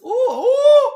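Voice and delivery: high squealing laugh through the strain; pained laugh. Real, not acted. Laughing at herself mid-stretch, a high squeal.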